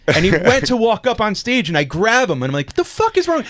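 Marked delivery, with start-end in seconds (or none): 2.7-3.4 mock alarmed. Grabbing the guy heading on stage.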